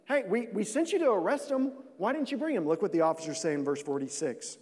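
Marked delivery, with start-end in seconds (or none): 0.0-2.7 higher, exasperated demand from the Pharisees; a lightly voiced angry question from the bosses; indignant Pharisees. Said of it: "they came back and they said".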